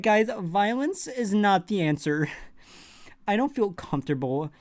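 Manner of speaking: whiny mock soldier. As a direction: play a fragile recruit fussing. Mocking anxious Gen Z soldier.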